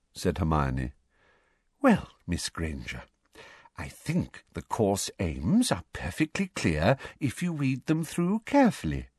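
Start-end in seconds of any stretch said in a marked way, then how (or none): 1.8-9.1 forced sweet teacher voice; sweet as syrup, through the teeth; determined sweetness. Acted. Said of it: "in a voice of determined sweetness".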